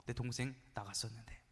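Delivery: hushed, acted gasp of shock; mock stunned murmur after a gasp; shocked reaction. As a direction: drop low and soft, as if stunned. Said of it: "삼 단 충격을 받아요".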